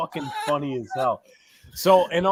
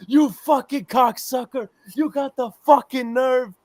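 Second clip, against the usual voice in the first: higher, heated insults hurled at the waiter; mock furious confrontation; retold angry cursing; 8 semitones higher than usual. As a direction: friend retelling a fight, angrily cursing.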